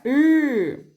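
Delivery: the bare "R" sound, held long and drawn out; som puxadinho. Shown as a demonstration. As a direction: demonstrate "R" as a stretched syllable-final sound. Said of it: "esse som puxadinho". ("R" puxadinho, som alongado e sustentado)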